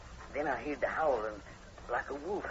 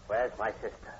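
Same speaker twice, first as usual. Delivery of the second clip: angry demand. Acted. Horton to the sergeant, demanding where his sister is, angry. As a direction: force an answer out of him.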